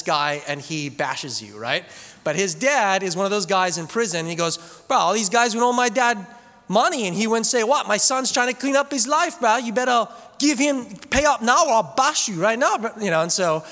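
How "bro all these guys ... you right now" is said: louder, higher imitated Hawaiian tough-guy threat; loud mock enforcer leaning on debtors. Retold tough talk from prison dad.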